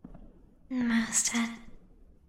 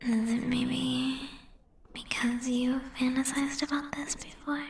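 teasing; 2 semitones higher than usual. Acted. Slow teasing whisper.

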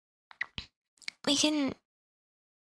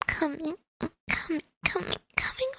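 rising moans; 3 semitones higher than usual. Acted. Climax, pitch climbing.

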